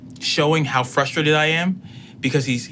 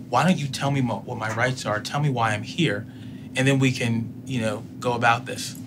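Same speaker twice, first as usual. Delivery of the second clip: much softer, steady, trying to calm him down; calm plea; 5 dB quieter than usual. Retold or imitated. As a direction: talk the officer down quietly, a touch of restraint.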